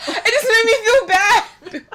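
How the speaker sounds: high, drawn-out laughing whine; laughing so hard it sounds tearful; laughing confession. Real, not acted.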